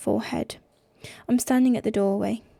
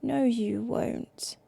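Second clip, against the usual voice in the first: slow, soft and empty; dead voice; 5 dB quieter, much slower than usual. Acted. Brother refusing through the door, dead and slow. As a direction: say it with nothing left inside. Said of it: "His voice is dead".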